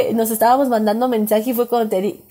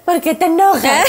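laughing complaint; 5 semitones higher, 3 dB louder than usual. Retold or imitated. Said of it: "Pero sí es así de".

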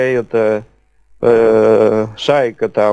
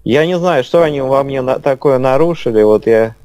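slowed speech. Real, not acted. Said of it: "у вас просто немножко замедленная речь".

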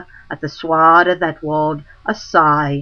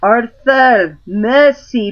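crying out; 5 semitones higher, 3 dB louder than usual. Acted. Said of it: "and cried".

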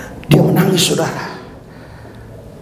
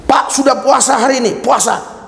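high, calling-out check-in; re-enacted high-voiced phone question; acted phone call; 11 semitones higher than usual. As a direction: pitch it up as if calling someone on the line. Re-enacts his daily phone call.

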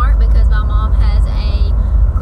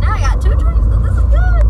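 squeaky high delighted voice; high excited squeal. Real, not acted. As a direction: squeal it with glee. Pleased with two drinks.

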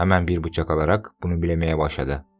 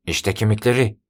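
shout; 5 semitones higher, 4 dB louder than usual. A narrator's reading. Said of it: "diye bağırdı".

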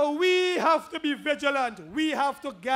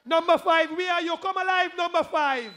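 raised, chanting call to the crowd; rally call-out. Real, not acted. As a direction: rouse the crowd with short calls. Calling out to the constituency crowd.

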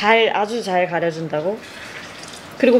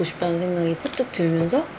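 chewing while talking; speaking between bites of pastry; mouth full; 5 semitones lower, 6 dB quieter, faster than usual. Real, not acted.

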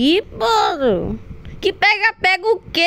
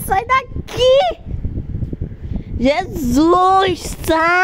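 panicked pleading shout; being chased; much slower than usual. Real, not acted. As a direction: cry out in real fright.

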